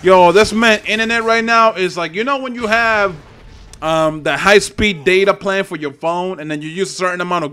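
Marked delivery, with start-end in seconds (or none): 0.0-1.7 loud, fed-up complaint; angry rant. Real, not acted. Gamer raging at opponent's laggy internet, loud fed-up rant.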